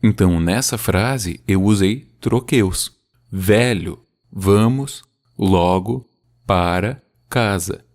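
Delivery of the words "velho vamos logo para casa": "Velho, vamos logo para casa" slow, strong then weak beats; slow trochaic reading; trochaic demo. Shown as a demonstration. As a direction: lean on each first syllable. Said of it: "uma sílaba forte e uma sílaba fraca".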